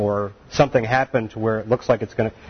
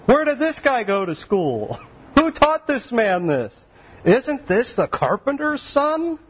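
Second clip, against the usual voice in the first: scoffing crowd; 11 semitones higher, slower than usual. Acted. Townspeople scoffing at Jesus.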